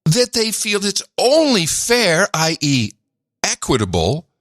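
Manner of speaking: high, strained voice pushed to the limit; straining voice. Real, not acted. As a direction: push the voice high until it strains. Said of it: "You're straining your voice".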